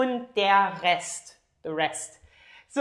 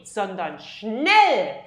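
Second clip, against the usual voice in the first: schnell drawn out slowly and punched louder; emphatic contrast on "schnell"; stress on schnell; 5 dB louder, much slower than usual. Shown as a demonstration. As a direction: lean hard into "schnell", stretched and slow. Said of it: "there is the emphasis".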